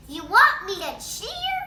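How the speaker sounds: high, loud yell. Acted. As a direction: yell it over the noise. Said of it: "yells Bean".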